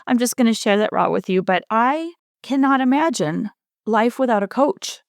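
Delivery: holding back tears while speaking; getting emotional. Real, not acted. Podcast host tearing up over her coach, emotional. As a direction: voice lifting, on the edge of tears. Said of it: "I'm getting a little emotional here".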